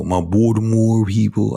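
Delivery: mock Baltimore accent on "Baltimore". Host teasing his Baltimore people, mock Baltimore accent. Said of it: "that accent".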